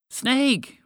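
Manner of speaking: one high, alarmed cry; insistent shout. A narrator's reading. Frog in case friend missed the fact, shouting. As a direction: shout it to drive it home. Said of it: "Walter shouted".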